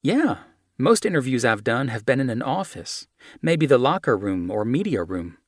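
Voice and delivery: put-on young American woman. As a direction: chat easily, comparing interviews.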